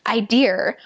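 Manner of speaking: put-on whispered Boston accent. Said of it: "they'll say random things like".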